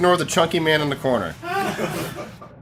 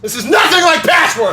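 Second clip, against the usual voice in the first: loud, higher, laughing protest; indignant protest; 8 semitones higher, 3 dB louder than usual. Real, not acted. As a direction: insist it is nothing alike. Arguing about the game.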